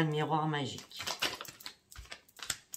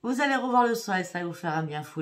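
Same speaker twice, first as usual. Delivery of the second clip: thrilled card reveal, much higher and louder; excited; 5 semitones higher, 4 dB louder than usual. Real, not acted. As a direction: burst out higher and louder with delight. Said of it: "c'est magnifique".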